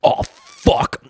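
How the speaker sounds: whispered curse. Retold or imitated. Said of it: "and he goes".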